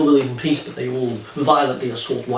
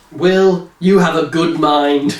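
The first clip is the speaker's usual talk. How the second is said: slightly higher, louder, laughing read; hammed-up recruiter voice; mock villain mentor; 4 semitones higher, 3 dB louder than usual. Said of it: "comic book dialogue read out".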